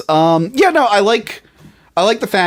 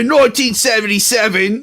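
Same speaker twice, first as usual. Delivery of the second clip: laughing through a hammed-up British accent, higher; mock British accent; 8 semitones higher than usual. Reading the movie synopsis to co-host, in a mock British accent. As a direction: read it like a cheeky Brit, barely holding back laughter. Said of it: "I gotta do it with a British accent".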